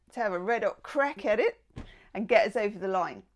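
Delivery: put-on half-hearted Australian accent; attempted Australian accent. Tarot reader urging us over the line, attempted Australian accent. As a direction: have a playful go at an Australian accent. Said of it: "trying to do my Australian accent".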